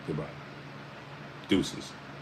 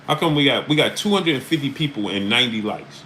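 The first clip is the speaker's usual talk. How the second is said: higher and louder, disbelieving the like count; can't believe the numbers, say it higher; baffled streamer calling out chat; incredulous; 5 semitones higher, 3 dB louder than usual. Real, not acted. Host incredulous at low like count.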